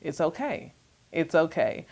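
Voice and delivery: inner reassurance. Retold or imitated. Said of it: "internally like".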